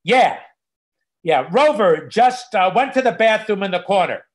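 mock indignant report. Dog owner phoning the doggy police, mock indignant. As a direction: loudly report the dog's offence, hammed-up. Acted phone complaint about the dog.

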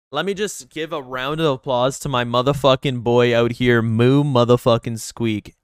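loud hype shout; loud shoutout. Real, not acted. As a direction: shout out the friend's name loudly.

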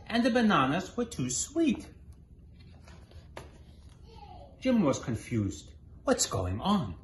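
lively storybook read-aloud; reading to children. A narrator's reading. Mother reading a picture book to her child, lively. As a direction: read it out brightly for little listeners.

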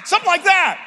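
ordinary talk

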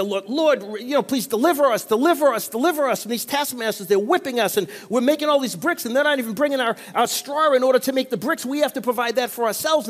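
a hint of desperate slaves begging for rescue; pleading Israelites crying out. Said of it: "they're crying out to God".

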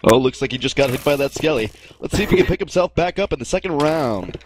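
excited play-by-play, rising pitch; enthusiastic sportscaster. Pretend. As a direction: call it like ESPN. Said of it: "Just be, like, really enthusiastic".

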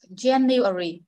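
January drawn out syllable by syllable; January in careful, separate syllables; slow demonstration. Shown as a demonstration. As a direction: say January slowly for a learner to copy. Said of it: "Cô đọc chậm, phiên bản chậm trước".

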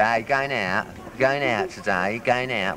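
Cockney "going out", the t dropped and vowels loose; lightly Cockney, "going out" swallowed at the end. Shown as a demonstration. Showing a child how he spoke as a boy, in Cockney. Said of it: "we say".

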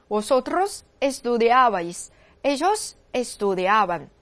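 slow, even Spanish conjugation drill; pronoun, short gap, then the verb drawn out; follow-me recitation. Shown as a demonstration. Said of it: "那这个变位再跟我走一遍哈".

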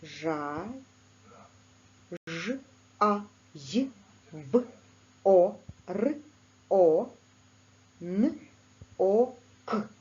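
Жайворонок broken into single sounds ж, а, й, в, о, р, о, н, о, к, one at a time; name each sound of Жайворонок separately with pauses; teacher sounding out a word for a sound model. Shown as a demonstration. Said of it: "Перевірте себе".

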